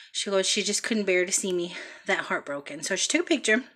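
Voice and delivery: out of breath from the stairs; breathless, puffing between words. Real, not acted. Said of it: "I'm out of breath 'cause I ran up and down the stairs".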